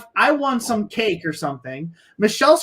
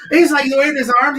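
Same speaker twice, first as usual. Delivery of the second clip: ordinary delivery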